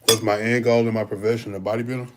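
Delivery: talking around a mouthful; mouth full. Real, not acted. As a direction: speak through a bite of food. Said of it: "I'm trying not to talk with my mouth full".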